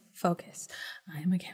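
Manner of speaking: soft whisper.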